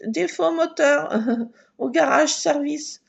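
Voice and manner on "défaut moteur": car alarm voice. Retold or imitated. Imitating the car's alarm to listeners, slow and robotic. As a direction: chant it like a dashboard alarm. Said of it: "Avec une alarme".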